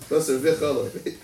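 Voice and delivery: "V'Chalav" opened with a clear v sound, slowly; V'Chalav with a vav. Shown as a demonstration. Teacher reading out the smicha wording, "V'Chalav" with a distinct v. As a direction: say "V'Chalav" slowly, leaning on the initial v. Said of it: "with the Vav".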